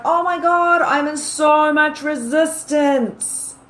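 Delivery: high, whiny-style inner complaint; hammed-up exasperation, pitched high; mock resistance. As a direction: act out someone overwhelmed and pushing back. Voicing someone with barriers up.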